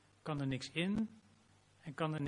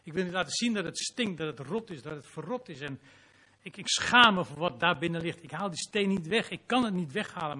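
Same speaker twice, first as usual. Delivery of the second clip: raised, louder pleading confession; ashamed Martha; 4 semitones higher, 7 dB louder than usual. Acted. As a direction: plead in shame, voice lifted. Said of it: "Ze zegt eigenlijk van".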